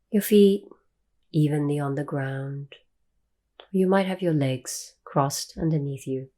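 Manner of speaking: calm meditation guide, long pauses between phrases; guided meditation. Real, not acted. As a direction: ease listeners into stillness, leaving long silences.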